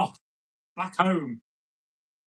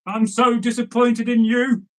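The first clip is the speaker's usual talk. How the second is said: angry father; 3 semitones higher, slower than usual. Acted. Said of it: "His dad shook his fist and said".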